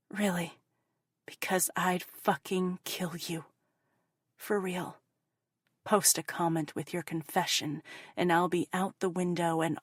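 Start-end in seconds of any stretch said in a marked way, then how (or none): 0.1-5.0 whispered threat, cold and close; menacing whisper. Acted. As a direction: hiss the threat straight at the snitch. Threatens unknown snitch among readers.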